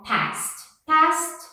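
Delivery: "past" ending in a crisp T sound; final ED as T. Shown as a demonstration. Teacher showing students the ED sound, "past" ending in T. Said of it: "meio que um som de um T".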